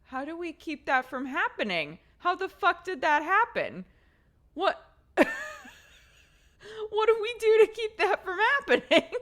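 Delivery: rising half-laughing alarm; worried parent asking how to stop it, laughing panic. Retold or imitated. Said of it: "I was like".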